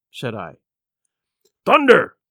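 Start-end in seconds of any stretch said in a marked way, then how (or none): 1.6-2.2 higher, louder outburst; cried out. A narrator's reading. Captain crying out at the doctor's orders, loud outburst. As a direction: bellow it in shock. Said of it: "he cried".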